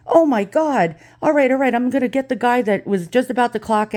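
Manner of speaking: playing the flustered postmaster; alarmed postmaster. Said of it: "And she says".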